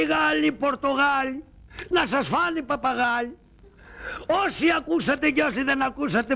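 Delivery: shouted street crier call; town crier. Acted. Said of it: "Ξέρεις τι θα λες".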